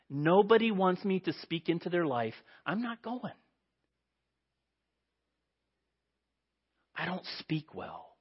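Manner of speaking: mope, feeling unwanted; dejected Moses. Acted. Moses voicing his rejection.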